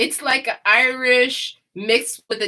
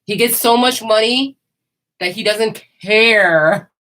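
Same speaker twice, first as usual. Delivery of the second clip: Brooklyn rich guy voice; 3 semitones higher, 5 dB louder than usual. Shown as a demonstration. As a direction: lean back like a moneyed Brooklyn man who doesn't care. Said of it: "That's how it sounds".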